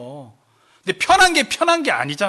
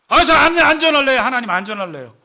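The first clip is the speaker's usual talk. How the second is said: acted reluctant outburst; balking refusal; 3 semitones higher, 7 dB louder than usual. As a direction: blurt out to God that you want out. Acted prophet refusing his mission.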